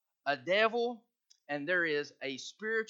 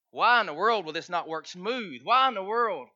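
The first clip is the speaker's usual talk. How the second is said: rising exasperated shout, louder each time; exasperated cry; 7 dB louder than usual. Retold or imitated. Fed-up father venting about problems at home, loud. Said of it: "beat my head against the wall and go".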